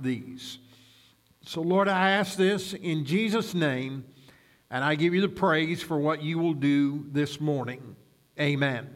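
measured, earnest pastoral prayer; public prayer. Real, not acted. Pastor thanking God before the Bible reading, measured prayer. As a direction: pray aloud on behalf of the congregation.

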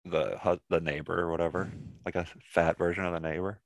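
muffled behind a hand; hand over mouth. Real, not acted. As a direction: talk through your hand. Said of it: "Don't talk with your hand over your mouth".

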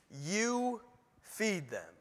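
Jesus gently repeating his command to the disciples; calm Jesus reply. Retold or imitated. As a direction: let it land quietly, like a settled answer. Jesus answers the disciples calmly.

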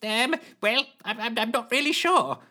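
high hesitant resigned voice; resigned Lushthorpe. A narrator's reading. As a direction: trail off resigned and unsure. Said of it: "sounding rather resigned".

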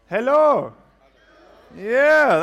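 very loud, high crowd-rousing shout; calling out to crowd. Real, not acted. Speaker rousing the crowd for a better reply, calling out.

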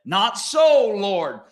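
high, loud protesting refusal; indignant apostle's objection; Peter objecting. Acted. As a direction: push back against the Lord.

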